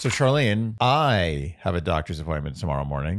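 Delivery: rough stuffed-up voice from allergies; allergy voice. Real, not acted. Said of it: "Oh my God, your voice today, Andy".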